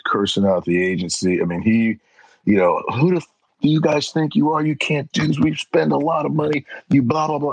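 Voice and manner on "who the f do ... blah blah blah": higher, mock-angry rant; hammed-up angry customer rant; angry caller. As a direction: imitate the furious client, pitched up. Angry caller cursing him out.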